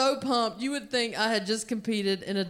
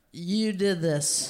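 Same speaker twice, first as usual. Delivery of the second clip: slow, lower-pitched blame; grave accusation; 4 semitones lower, slower than usual. Acted. Drunk comedian blaming the crowd, gravely accusing. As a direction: lay the blame slowly and solemnly.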